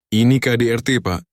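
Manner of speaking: loud high insistent plea; urgent protest. A narrator's reading. Wife reporting abuse to police, urgent. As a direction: insist to the officer.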